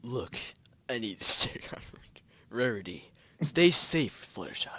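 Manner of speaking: whispering. Acted. Twilight's line, whispered.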